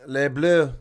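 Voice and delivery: slow, savoured call of Les Bleus; slow announcer intro; drawn-out announcement. Real, not acted. Commentator savours French team name.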